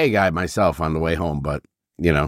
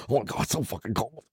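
mock whining; 10 dB quieter than usual. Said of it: "he's just like".

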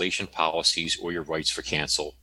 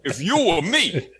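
mocking through laughter; 12 semitones higher, 6 dB louder than usual. Mocking the wise guy, laughing.

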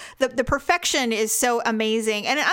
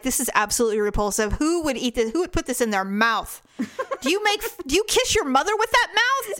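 mock judgy critic; 2 semitones higher than usual. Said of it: "that persona where people loved how hateful".

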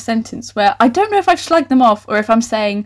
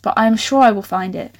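normal talking voice

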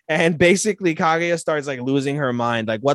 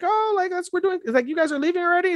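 much higher, bubbly; high girly voice; faster than usual. Acted. Fujiwara greeting them, high bubbly voice. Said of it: "They're like".

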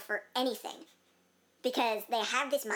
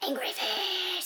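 drawn-out, high mock angry face voice; funny voice; 8 semitones higher, much slower than usual. Podcast host playing angry face for fun, funny voice. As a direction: stretch it out in a silly high voice. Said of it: "This is my funny voice".

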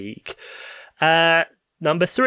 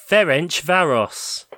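slow careful pronunciation. Shown as a demonstration. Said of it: "F E R E N C V A R O S".

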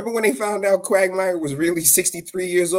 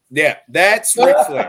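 high, loud, slow punchline; emphatic punchline; 6 semitones higher, 5 dB louder than usual. Real, not acted. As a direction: land it big and slow.

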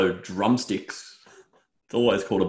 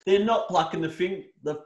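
outraged rant; 5 semitones higher than usual. Real, not acted. Outraged rant about feathered chicken.

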